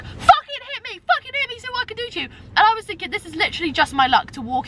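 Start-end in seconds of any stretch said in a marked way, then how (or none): 0.0-2.3 mock aggressive man. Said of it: "the guy was like".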